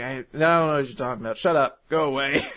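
rattled off very fast; hurried, mock annoyed shutdown; fast dismissive rattle. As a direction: brush them off in one rushed breath.

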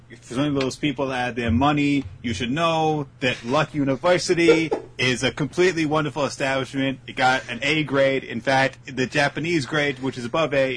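boastful rambling Trump voice; Donald Trump impression. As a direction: brag on and on like Trump. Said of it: "That's how Donald Trump talks".

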